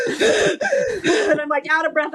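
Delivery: laughing through the words, pitched high. Real, not acted. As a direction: giggle it out while telling the story. Laughing while retelling breathlessness.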